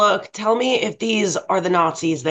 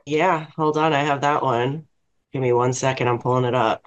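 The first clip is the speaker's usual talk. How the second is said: sultry voice; 4 semitones lower than usual. Real, not acted. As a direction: purr it out to win them over. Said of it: "Why you put on your sultry voice?".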